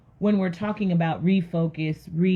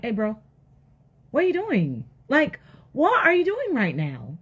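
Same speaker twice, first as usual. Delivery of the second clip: high, incredulous "what are you doing"; mock disbelief; 4 semitones higher than usual. Onlookers calling out to Noah, mock disbelief. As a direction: question him like a baffled onlooker.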